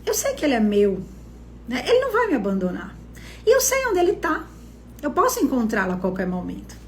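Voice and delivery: mildly breezy, unworried bride; lightly voiced careless confidence; carefree talk. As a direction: toss it off as if nothing could go wrong. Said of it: "é como uma fala despreocupada".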